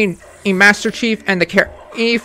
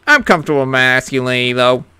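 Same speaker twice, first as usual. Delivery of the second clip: even lower, gruffer macho rumble; deeper macho voice; 9 semitones lower, 4 dB quieter, faster than usual. Acted. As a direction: push the tough-guy voice lower. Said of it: "sound manly".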